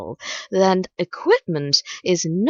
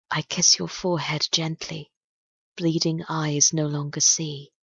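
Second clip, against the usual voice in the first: poem reading. Acted. Host reads a dark love poem to night listeners, solemn poem reading. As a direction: recite it in paced lines with long pauses.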